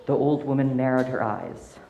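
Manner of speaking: calm storytelling voice; story narration. A narrator's reading. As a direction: read it like a bedtime tale. Story narration read aloud.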